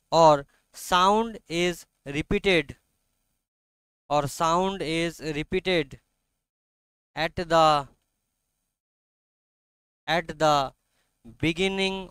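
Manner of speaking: very slow, measured dictation. Real, not acted. Teacher dictates a definition to students, slow and deliberate. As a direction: spell it out phrase by phrase for note-takers.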